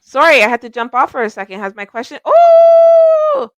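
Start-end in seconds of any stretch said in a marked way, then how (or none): 2.2-3.5 high loud surprised oh; suddenly spot something. Real, not acted. Host spotting a viewer question, surprised.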